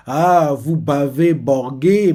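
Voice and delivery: slow, sobbing mispronunciation; garbled through tears. Retold or imitated. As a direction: mangle the words as if crying. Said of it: "c'est parce qu'il est en larmes". (mots déformés par les larmes)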